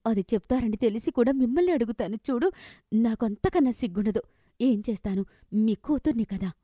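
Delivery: heated complaint at her mother, pitch climbing; frustrated outburst. Acted. Daughter lashing out at her poor mother, angry. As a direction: vent years of frustration, sharp and bitter. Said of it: "అంటూ తల్లి మీద నోరు జారి".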